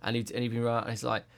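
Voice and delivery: normal talking voice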